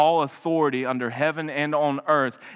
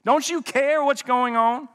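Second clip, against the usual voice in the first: pleading prayer; 6 semitones higher, slower than usual. Acted. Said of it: "have had that same prayer".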